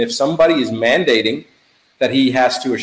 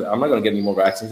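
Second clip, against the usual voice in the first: quick, lower, matter-of-fact quote; 4 semitones lower, faster than usual. Retold or imitated. Son telling his father he refuses more vaccines, matter-of-fact. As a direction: state it quickly, without any fuss. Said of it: "in his normal matter-of-fact tone".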